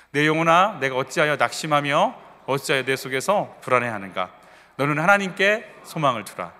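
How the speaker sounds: measured, phrase-by-phrase psalm reading; scripture recitation. Acted. Pastor leading the congregation in a psalm of longing, scripture recitation. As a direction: recite steadily so a congregation can read along.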